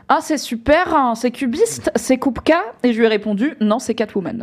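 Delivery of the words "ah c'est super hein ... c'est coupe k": put-on higher, posh bourgeois French accent. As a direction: play the snooty bourgeois museum director. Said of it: "je vais le faire avec l'accent bourgeois".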